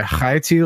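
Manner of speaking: "high tea" begun with a throaty 'kh'; scraped 'kh' on "high", then plain "tea"; guttural Hebrew-style ch. Retold or imitated. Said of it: "you'd pronounce that high".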